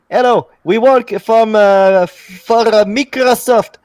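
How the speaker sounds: high, loud put-on voice of a phone scammer; scam caller voice. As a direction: ham up the fake Microsoft caller, pitched well up. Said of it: "somebody trying to con you about I T".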